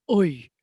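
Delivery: "oi" as an exaggerated stage-Irish vowel; mock the tutorial's overdone Irish "oi"; bad Irish "oi". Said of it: "the most important thing in an Irish accent".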